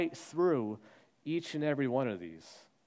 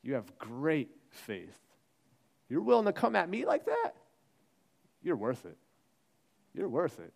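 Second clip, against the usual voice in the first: commending Jesus. Retold or imitated. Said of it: "She gets commendation".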